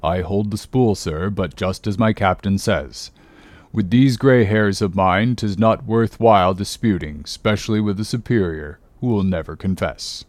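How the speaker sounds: lightly voiced, deferential old sailor; a hint of a humble old hand; old Manxman. Old sailor answers his captain, deferential.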